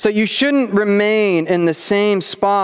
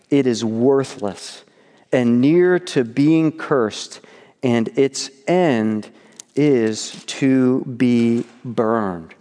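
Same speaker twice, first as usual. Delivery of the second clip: scripture reading. Acted. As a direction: read the passage with weight, slowing at the end. Reads scripture aloud.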